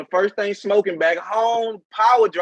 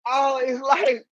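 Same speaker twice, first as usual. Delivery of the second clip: laughing hard; 4 semitones higher, slower than usual. Real, not acted. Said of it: "I'm laughing so hard".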